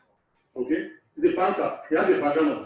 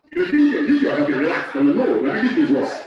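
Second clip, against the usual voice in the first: laughing rebuke; 5 dB louder than usual. Real, not acted. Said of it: "laughing rebuke".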